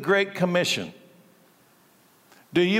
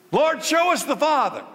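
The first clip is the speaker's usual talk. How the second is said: mocking Philip; 9 semitones higher than usual.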